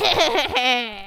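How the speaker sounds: high, cackling mad laugh; evil maniac cackle; maniacal laugh. Acted. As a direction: cackle like a would-be horror villain. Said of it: "laughed a maniacal laugh".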